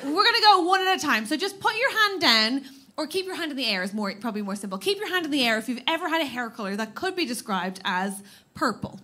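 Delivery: quiet game host. Real, not acted. Explaining game rules softly.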